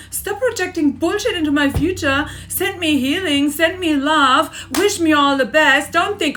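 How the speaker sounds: angry outburst. Real, not acted. Furious rant at her mother.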